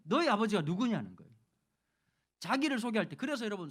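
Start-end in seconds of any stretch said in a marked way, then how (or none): 0.0-1.2 light Gyeongsang dialect, lower start; 경상도 사투리. Retold or imitated. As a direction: ask it like a Busan elder. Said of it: "경상도 말로 하면 이렇게". (경상도 사투리로 가볍게 묻는 어른)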